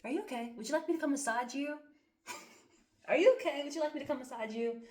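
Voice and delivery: imitating her own overly sweet caregiver voice; sweet caring voice. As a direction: coo over them like a doting partner. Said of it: "Me, I'm just".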